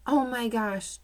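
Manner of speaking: as if it just clicked; boy suddenly spotting the costume, surprised. A narrator's reading. Sudden realization in story.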